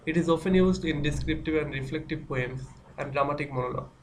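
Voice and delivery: slow, even reading of a definition, word by word; slow dictation reading. Acted. Teacher dictating a definition to students, slowly. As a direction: read it out slowly so students can write it down.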